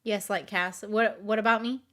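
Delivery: ordinary talk, nothing marked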